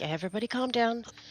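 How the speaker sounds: panicked, on-edge, panicky tone. Voicing a character in a standoff, arms out toward two others: panicked, on edge. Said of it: "really on edge. Very panicked".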